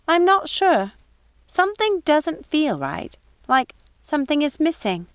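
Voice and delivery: high, puzzled housekeeper voice; wavering, lost old woman; confused old woman. Acted. Mrs Tittlebottom asks Gothel about her fall, confused.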